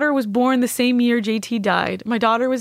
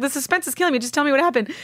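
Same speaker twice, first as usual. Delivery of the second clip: higher-pitched, exasperated retold plea; impatient pleading; 6 semitones higher, much faster than usual. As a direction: beg for the answer, pitch raised. Acting out impatience at suspense.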